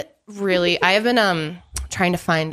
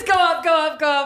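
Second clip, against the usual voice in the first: pitched-up silly voice; high-pitched; 7 semitones higher than usual. Pretend. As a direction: push the voice up high. Impression game, pitched up.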